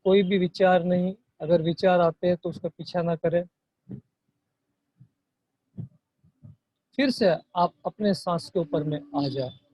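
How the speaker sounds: soft meditation guide with long pauses; guided meditation. Real, not acted. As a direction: gently guide them into watching the breath. Guides breath meditation softly. (धीमी आवाज़ में ध्यान का मार्गदर्शन)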